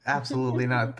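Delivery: quick laughing no, amused; laughing refusal. Real, not acted. Player laughing off the DM's dice ban. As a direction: toss it off through laughter.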